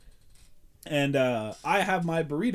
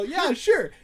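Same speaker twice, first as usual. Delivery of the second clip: 1 mock agreeable self; 11 semitones higher, 5 dB louder than usual. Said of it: "And I go".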